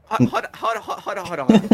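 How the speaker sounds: urgent shout. Acted. Stopping the crowbar in panic.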